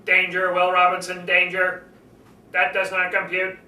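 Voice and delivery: a hint of a flat robot monotone; mild mock robot voice. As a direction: lightly imitate Robbie the Robot. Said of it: "the robot was always talking like this".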